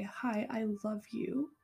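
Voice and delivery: unhurried loving reassurance to a hurt stranger; tender affirmation. Pretend. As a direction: soothe a hurting stranger with love. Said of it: "a total stranger, can say".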